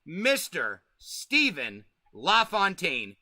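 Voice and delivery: slow, drawn-out announcer build-up to the name; stretched, showman welcome for the guest; hype guest introduction. Acted. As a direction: roll out the intro like a ring announcer. Host introduces guest on stream.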